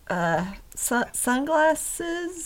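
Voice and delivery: pinched-nose voice, nose held shut; pinching nose. Acted. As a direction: say it holding your nose. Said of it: "Maris pinches her nose and says".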